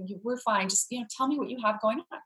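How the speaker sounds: kind reassurance. Retold or imitated. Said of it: "the woman was very kind".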